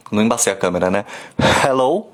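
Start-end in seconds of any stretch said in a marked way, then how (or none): 1.6-2.1 "hello" com H de bafo que embaça o vidro; fogging-glass h. Shown as a demonstration. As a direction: bafeje o H de "hello" num copo. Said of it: "não deu certo". (H que embaça o vidro)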